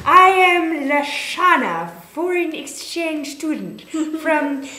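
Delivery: slow, loud, hammed-up French accent with a laugh; mock French accent. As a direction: fake French accent, cracking up. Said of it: "I said in my best French accent".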